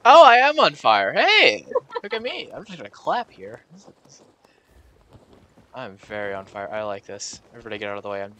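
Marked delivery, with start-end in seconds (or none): 0.1-2.5 high, loud delighted shout; excited. Real, not acted. Finding himself on fire in the game, shouting excitedly. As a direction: cheer at being on fire. Discovers own character burning.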